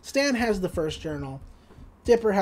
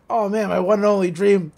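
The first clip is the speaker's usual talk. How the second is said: louder, hammed-up joy at the money; Stan's loud mock delight at his prize; mock overjoyed Stan; 6 dB louder than usual. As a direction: crow about the dream coming true. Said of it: "It's like".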